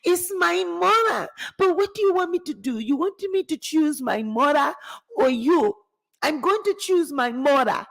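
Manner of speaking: Shaq. Acted. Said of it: "Shaq gonna be like".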